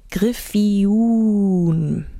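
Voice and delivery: Griffijun drawn out slowly with stress on the last syllable; Griffijun, stressed at the back, slow; islander's pronunciation. Shown as a demonstration. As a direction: stretch Griffijun, weight on the end. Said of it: "Betonung hinten, nicht vorne".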